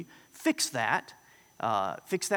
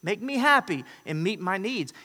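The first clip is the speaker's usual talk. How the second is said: much higher, fast, self-important mock voice; voice of sin; 9 semitones higher, 5 dB louder than usual. Preacher voices sin as a selfish ego demanding service. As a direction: play a puffed-up ego demanding worship. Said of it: "It says".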